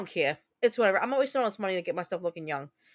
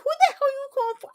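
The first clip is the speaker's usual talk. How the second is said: high, fast indignant shout; outraged retort; 3 dB louder, faster than usual. Retold or imitated. To the young clerk who guessed forty-five, a high offended shout. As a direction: fire it back at the clerk, offended. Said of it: "I was like".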